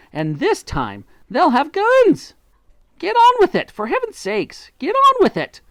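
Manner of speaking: high, loud, frantic shouting; frenzied urging. A narrator's reading. Mugglewump rushes the others, loud and frantic. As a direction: urge them on in a wild hurry. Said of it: "He was in a frenzy of excitement".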